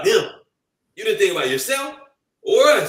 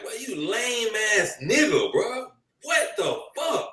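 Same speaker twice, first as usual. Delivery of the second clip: slow, high-pitched mock scolding; pretend scolding; 6 semitones higher, 4 dB quieter, slower than usual. At a friend's funeral, scolding him in slow, high mock anger. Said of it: "I would be like".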